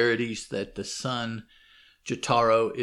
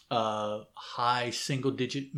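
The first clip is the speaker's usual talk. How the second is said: ordinary delivery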